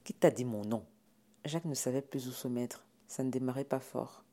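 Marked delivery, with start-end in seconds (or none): 0.0-0.9 bristling. Acted. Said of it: "le poil hérissé".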